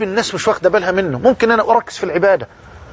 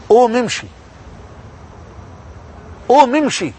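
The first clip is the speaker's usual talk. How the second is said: voice calling loudly; 4 semitones higher than usual. Retold or imitated. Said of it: "ينادي علي بصوت مرتفع".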